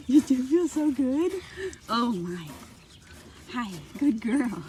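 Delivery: talking to a horse. Real, not acted. Cooing to animal.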